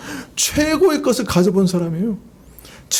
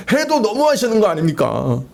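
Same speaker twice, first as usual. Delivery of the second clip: acted protest, voice only slightly raised; imitated outcry; 3 semitones higher than usual. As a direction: cry out in mild mock protest to God. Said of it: "그런 고함 소리를 이렇게 듣는 것 같아요". (항의하듯 가볍게 외치는 흉내)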